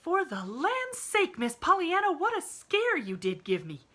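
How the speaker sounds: breathless, high and loud; gasping out the words after running; panted. A narrator's reading. Nancy panting as she catches up with Pollyanna. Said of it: "panted Nancy".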